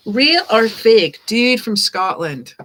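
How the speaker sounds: slow, punchy mock Scottish; amateur Scottish accent, loud then easing off; fake Scottish accent. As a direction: put on a bad Scottish accent, leaning on the opening. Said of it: "fake and horrible Scottish accent".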